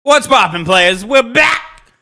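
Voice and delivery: hype intro. Acted. Hype show intro greeting.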